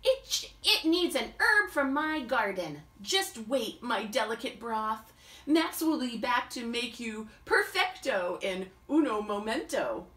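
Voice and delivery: lightly voiced mock Italian chef; a hint of an Italian chef promising his broth. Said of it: "Max is even speaking like a chef".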